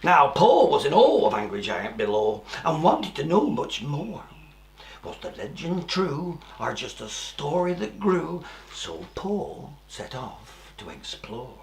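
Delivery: put-on lively rhyming read-aloud for children; a storyteller sharing a rhyme with small children; storybook reading. A narrator's reading. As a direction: read the verse like a bedtime story. Reads rhyming verse of book.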